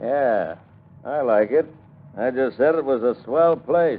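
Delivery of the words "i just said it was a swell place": louder, clear repeat; said out clearly. Acted. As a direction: speak it up plainly now. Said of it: "what are you muttering about".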